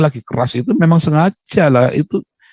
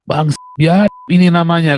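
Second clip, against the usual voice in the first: mock insult; 5 semitones higher than usual. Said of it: "maki-maki satu kelompok".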